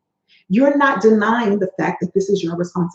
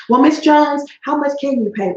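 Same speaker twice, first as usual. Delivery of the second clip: debt collector voice; 4 semitones higher than usual. Acted. Collector voiced in role-play.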